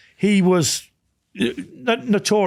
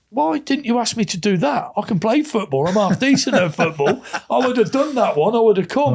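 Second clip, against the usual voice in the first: higher-pitched mock complaint; retold indignant protest; 6 semitones higher than usual. Telling how he asked John why he was left out, higher-pitched protest.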